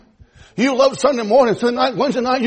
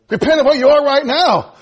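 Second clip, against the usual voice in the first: higher, louder preached repeat; preached aloud; 3 semitones higher, 3 dB louder than usual. Real, not acted. Preacher urging the church to repent, higher and louder. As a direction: hit it as a plea to the church.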